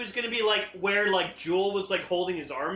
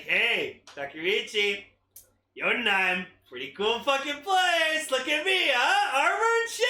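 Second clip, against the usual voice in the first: put-on Russian accent; 4 semitones higher than usual. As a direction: brag in a mock Russian accent. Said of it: "I made Garza Russian".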